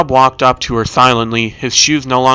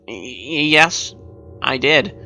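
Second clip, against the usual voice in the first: timid; 5 dB quieter, much slower than usual. Acted. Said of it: "says timidly as he clears his throat".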